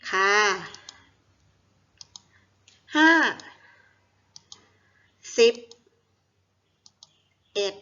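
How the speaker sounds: each syllable alone, very long pauses between; syllable-by-syllable dictation. Shown as a demonstration. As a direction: model the reading one syllable at a time. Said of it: "อ่านว่า".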